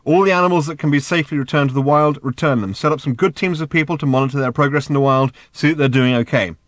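insistent. Acted. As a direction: press the demands on a balky clerk. Ford pushing room service by phone.

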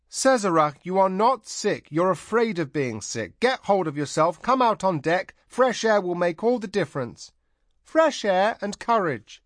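rally her out of her fear; firm commanding. A narrator's reading. Tanar urging the scared princess on deck, firm and loud.

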